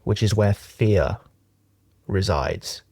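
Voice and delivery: measured meditation teaching with long pauses; unhurried, leaving long silences between phrases; guided meditation. Acted. Teacher talks friends through a closed-eye meditation, guided meditation.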